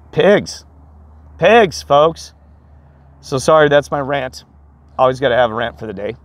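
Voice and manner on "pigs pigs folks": higher and louder, spitting out the insult; disgusted outburst. Real, not acted. Vlogger ranting to viewers about waste, loud disgusted outburst. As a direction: call them out with contempt.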